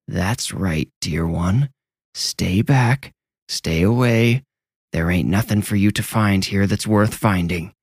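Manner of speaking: lightly voiced sickly crone; ancient, sick old woman. Hidden old woman warns the boy away, sickly crone voice. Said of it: "She sounded ancient and sick".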